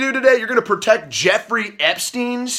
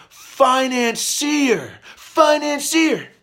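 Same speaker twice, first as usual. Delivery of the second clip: slow Financier, pitched higher and sneering; mocking the word; 4 semitones higher, much slower than usual. Mocking the media's label to viewers, sneering. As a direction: stretch Financier out in disbelief. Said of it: "financier, they say".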